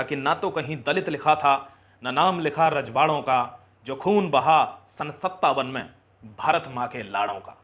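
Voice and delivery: rousing, emphatic verse with weighted line endings; stirring recited verse; patriotic poem recitation. Acted. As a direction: declaim it to the nation.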